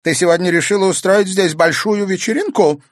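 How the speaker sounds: mock the girl's party; irritated old woman. Grandmother sarcastically scolding.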